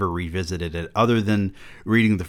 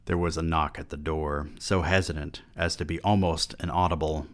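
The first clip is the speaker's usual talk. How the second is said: hushed audiobook reading; story reading; 3 semitones lower than usual. Acted. Reads the novel aloud.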